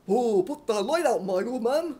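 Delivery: loud, cheeky put-on voice; mocking echo. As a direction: throw the order back, loud. Another voice joins the shouting.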